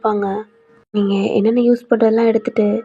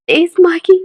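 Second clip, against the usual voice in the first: pleading; 7 semitones higher, 7 dB louder than usual. Acted. Heroine begs friend on phone.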